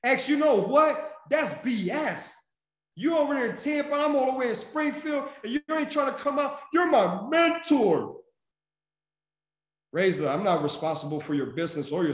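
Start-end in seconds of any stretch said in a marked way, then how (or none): 0.0-8.2 imitating whiny friend. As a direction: act her blaming her mentor. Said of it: "if Razor that day said".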